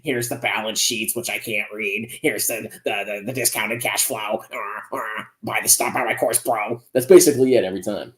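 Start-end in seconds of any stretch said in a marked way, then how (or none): 0.0-6.8 slow, softer droning mock of a finance channel; bored finance presenter. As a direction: mumble through it like a bored stock-pitching host. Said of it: "To them, it's like".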